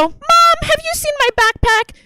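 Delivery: put-on high-pitched kid calling for Mom; child calling out. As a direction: holler across the house in a child's voice.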